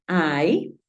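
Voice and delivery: "ay" as the English long I; changing I sound. Shown as a demonstration. Teacher showing first syllable, I sounded as "ay". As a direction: glide "ay" like English "eye". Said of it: "la I en un sonido cambiante".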